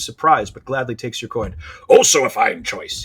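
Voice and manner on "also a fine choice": louder, lightly voiced old pirate; old pirate hare. Old hare gladly taking coin, hearty light pirate voice. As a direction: approve it with a hint of pirate. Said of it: "this old hare is a pirate".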